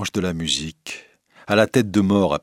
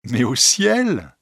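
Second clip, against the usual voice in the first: high, drawn-out innocent answer; candid; 6 semitones higher, 4 dB louder, much slower than usual. A narrator's reading. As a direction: state it as the most obvious thing. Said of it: "répondit la vieille dame avec candeur".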